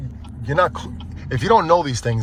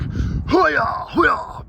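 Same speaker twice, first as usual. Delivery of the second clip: cheering shout. Real, not acted. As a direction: cheer it out high. Cheering heading home.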